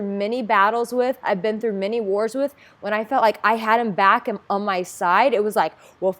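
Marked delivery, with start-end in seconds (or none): 6.0-6.2 loud, rousing game-on call; rally yourself for a fight; fired-up battle cry. Retold or imitated. Feeling her brother has her back, fired up and loud.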